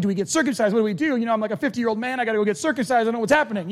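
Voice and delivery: panicked converts. Retold or imitated. New believers asking Paul, a mock panicked rush. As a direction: fret aloud about getting circumcised. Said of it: "they're going".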